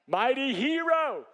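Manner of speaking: drawn out, pitched high and loud, ironic; mock grand Mighty hero, slowly; ironic mock title. Shown as a demonstration. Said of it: "He does not look like a mighty hero".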